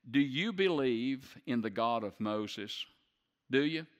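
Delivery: loud, rising challenge to the crowd; pressing question. Real, not acted. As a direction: demand an answer from the pews. Preacher challenging the congregation.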